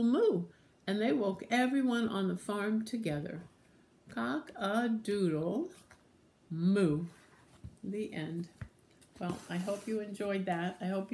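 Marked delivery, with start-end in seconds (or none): 4.1-7.0 slow crow, pause before moo; cow-style crow. Acted. Rooster and cow waking the farm together, slowly crowing. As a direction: stretch it out, then land on moo.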